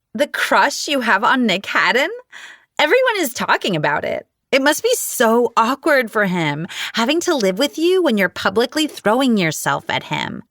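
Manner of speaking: high catty gossip voice; whiny falsetto. A narrator's reading. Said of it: "Her whiny falsetto voice".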